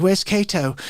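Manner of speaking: put-on toned-down English accent. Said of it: "it's not like that at all".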